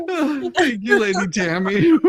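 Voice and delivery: breathless laughing thanks. Real, not acted. Thanking Lady Tammy while still laughing. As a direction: thank her through laughter.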